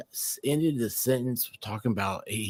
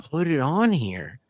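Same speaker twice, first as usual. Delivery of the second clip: slow coaxing quote; 4 semitones higher, slower than usual. Retold or imitated. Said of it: "he leans over and says".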